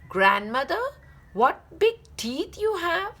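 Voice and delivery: high, alarmed cry. Acted. Girl cries out at the wolf's teeth, high and alarmed. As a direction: cry out in fright, pitch up. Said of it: "cried Little Red Riding Hood".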